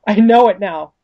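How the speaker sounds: high, impassioned vow from a determined heroine; Courtney. Acted. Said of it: "she's just like".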